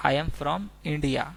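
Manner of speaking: I am from India stretched out slowly, word by word; slow repeat. Shown as a demonstration. Teacher repeating the English phrase slowly for students. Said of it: "अगर हमें बोलना हो".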